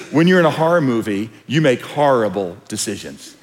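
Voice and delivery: deep announcer drop at the end; ad narrator voice. Retold or imitated. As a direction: read it like a TV commercial voice-over. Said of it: "the narrator comes on ... says".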